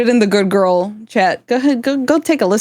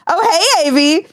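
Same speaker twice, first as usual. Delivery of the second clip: squeaky imitation of his hello; high, teasing dad-voice hello; high-pitched mock greeting; 9 semitones higher than usual. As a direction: mimic him way up high. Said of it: "you literally went".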